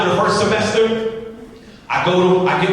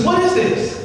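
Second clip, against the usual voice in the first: appalled demand; 14 semitones higher than usual. Retold or imitated. Crying girl confronts Jeff over his grades, appalled.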